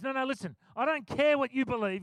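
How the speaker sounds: brushing him off, cranky; short and cranky. Retold or imitated. Weary preacher cutting off passenger, short. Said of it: "got a bit short with him".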